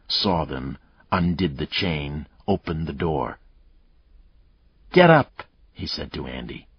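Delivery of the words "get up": louder, higher barked order; harsh order. Acted. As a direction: bark it down at her. Captor orders the weak mother.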